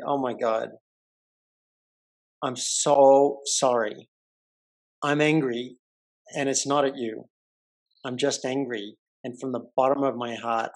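melting into regret; remorseful apology. Retold or imitated. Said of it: "She melted".

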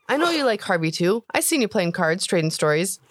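put-on a kid pushing his point; boy reminding the cook he likes Harvey, young voice; orc boy, earnest.

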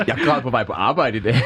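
real laugh running into the words. Real, not acted. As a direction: confess it through a laugh. Joking confession about crying, laughing.

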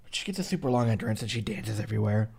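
hiccuping through the words; with hiccups. Real, not acted. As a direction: speak between hiccups. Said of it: "I got the hiccups all of a sudden".

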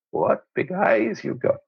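lightly imitated come-on; a hint of a flirt admiring someone. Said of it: "she's coming on to me".

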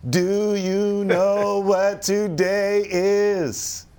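teasing. Real, not acted. Teasing quiz question to guest.

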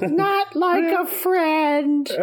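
very high, slow creature squeal; gremlin monkey voice. Retold or imitated. Monkey correcting Ben during a proposal, high gremlin voice. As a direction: draw each word out in a squeaky gremlin impression.

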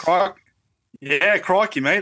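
mock Australian accent. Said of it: "You guys do accents?".

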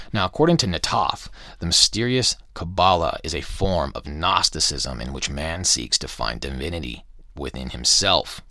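reading aloud. A narrator's reading. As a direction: read from the book with deliberate emphasis. Reads the book aloud.

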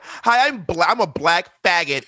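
hammed-up caller introduction; mock caller greeting. Guest pretending to be a caller announcing identity, mock greeting. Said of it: "everyone should call and be like".

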